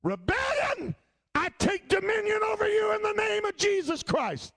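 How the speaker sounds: high, loud commanding rebuke of a spirit. Retold or imitated. Preacher rebukes the spirit of rebellion, loud and commanding. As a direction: cast it out with full authority.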